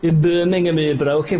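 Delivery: playful fake Birmingham accent; attempted Brummy accent. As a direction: have another go at a Brummy accent. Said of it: "I'll go Brummy".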